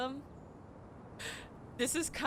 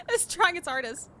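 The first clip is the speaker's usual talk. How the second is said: laughing through the words; 7 semitones higher, 7 dB louder than usual. Real, not acted. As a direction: giggle while you speak. Laughing at the frog.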